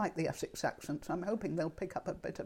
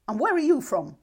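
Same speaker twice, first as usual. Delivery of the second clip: loud, higher-pitched retold challenge; displeased challenge; 7 semitones higher, 11 dB louder than usual. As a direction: imitate a put-out angler calling to kayakers. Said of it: "he wasn't pleased about it at all".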